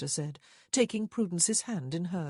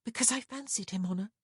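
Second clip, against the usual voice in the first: matter-of-fact higher-voiced admission; said flatly; 6 semitones higher, faster than usual. A narrator's reading. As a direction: state it plainly to a sister. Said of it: "Prudence said flatly".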